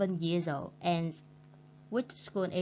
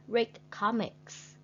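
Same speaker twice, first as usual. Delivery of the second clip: slow, high, careful phrase; slow model reading; 4 semitones higher, slower than usual. Shown as a demonstration. Teacher reading the strategy slowly with pauses. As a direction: read it slowly with clear pauses. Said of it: "take the correct pauses".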